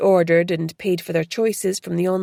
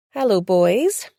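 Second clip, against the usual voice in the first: smiling greeting; 4 dB louder, slower than usual. Acted. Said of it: "she smiled".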